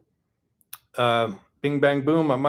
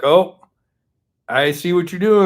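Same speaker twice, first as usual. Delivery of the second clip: a knowing oh, lifted and louder; mock realization; 5 semitones higher, 8 dB louder than usual. Vlogger acting out a viewer who figures out the plot, with mock excitement. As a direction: play the viewer catching on, pleased with themselves.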